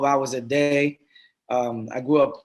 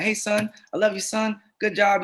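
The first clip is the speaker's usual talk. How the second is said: lightly voiced proud father, pitched higher; a hint of a doting father; proud dad voice; 6 semitones higher than usual. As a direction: cheer the kid on like a beaming dad. Imagined ideal dad praising son.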